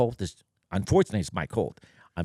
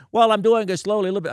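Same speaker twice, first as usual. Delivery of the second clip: sheepish electrician; 9 semitones higher, 7 dB louder, faster than usual. Retold or imitated. Electrician backpedals, retold.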